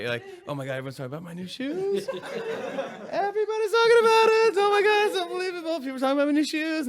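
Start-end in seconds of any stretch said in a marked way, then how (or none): 0.5-2.1 fast, giddy show-off voice; lightly hammed-up vain star, delighted with himself; mock self-absorbed gush. Mocking self-absorbed person. 2.1-6.9 very high, loud, laughing squeal; a vain star squealing over his shoes, laughing; hammed-up vain celeb.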